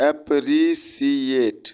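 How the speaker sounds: अप्रिशिएट drawn out slowly, syllable by syllable. Shown as a demonstration. Teacher breaks अप्रिशिएट into syllables for students. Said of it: "इसको syllable में तोड़िए".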